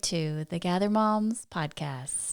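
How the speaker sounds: measured, lightly performed classroom welcome; teacher voice. Pretend. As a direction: greet listeners like a teacher addressing a class. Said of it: "a little bit of your teacher voice".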